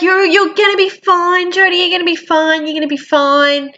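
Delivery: high, sing-song parroting of empty comfort; mocking reassurance. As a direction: mimic the hollow "you're gonna be fine" chorus. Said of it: "And everyone's like".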